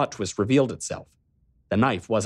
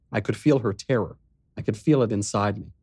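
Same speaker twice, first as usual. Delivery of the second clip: ordinary delivery, nothing marked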